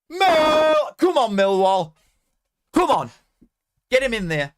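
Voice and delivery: loud high yells, willing the ball in; urging the team on. Real, not acted. Streamer watching Millwall attack, loud urgent cheering. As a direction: bellow at the screen like a fan on the terraces.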